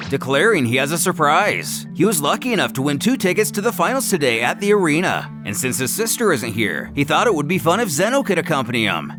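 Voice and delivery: plain reading voice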